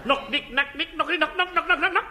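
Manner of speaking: door knocker impression. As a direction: knock knock sounds, rapid. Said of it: "It's an impression of a door knocker".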